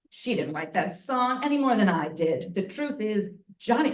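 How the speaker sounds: put-on a light Southern-style accent for Vivian; lightly voiced old-fashioned accent. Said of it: "I'm doing this accent".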